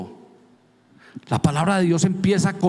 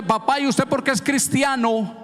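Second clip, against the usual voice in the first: put-on child's voice; 8 semitones higher than usual. Son asks father a question.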